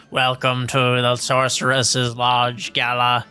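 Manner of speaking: stiff robotic butler voice; enchanted armor speaking like a robot. Acted. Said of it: "enchanted robotic voice and says".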